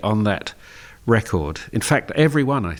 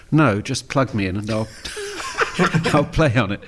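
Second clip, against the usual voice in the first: laughing. Retold or imitated. Laughing while quoting a guitarist.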